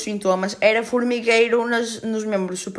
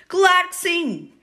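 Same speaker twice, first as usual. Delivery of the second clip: high, slow mocking "of course"; sarcastic; 9 semitones higher, slower than usual. Real, not acted. Mocking herself about overthinking after the crash, sarcastic. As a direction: drip with irony at yourself.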